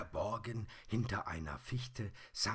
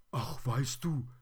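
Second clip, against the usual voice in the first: high, loud little toy voice; higher, louder teddy character; plush teddy; 6 semitones higher, 7 dB louder than usual. A narrator's reading. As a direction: open up as a confiding teddy.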